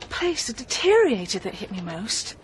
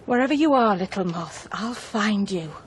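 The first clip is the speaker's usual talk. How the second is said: quoted menace; 4 semitones lower than usual. Retold or imitated. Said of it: "always used to say he'd find me".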